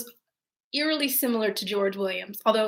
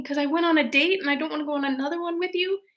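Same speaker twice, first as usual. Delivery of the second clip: higher, quick, snarky inner voice; sarcastic thought; 5 semitones higher, faster than usual. Retold or imitated. Her unspoken retort to the date, snarky and fast. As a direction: toss it off with a private eye-roll. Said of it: "And I was thinking".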